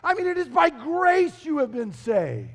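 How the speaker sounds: high, excited break-in; sudden interjection. Acted. Paul interrupting his own dictation, excited interjection. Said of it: "Paul suddenly interjects in the middle of the sentence".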